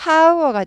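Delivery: "hour" wrongly begun with an audible h, like "how-er"; H sounded. Shown as a demonstration. Teacher showing how it would be if H sounded, H sounded. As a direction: breathe a clear h onto "hour". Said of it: "H가 발음이 났으면".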